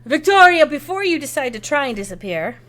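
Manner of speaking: put-on light French accent, opening high and loud; Ruby, French accent. Hostess to Victoria before she hides, French accent. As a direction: call out by name in a French accent. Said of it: "she's saying this in all this wonderful French accent".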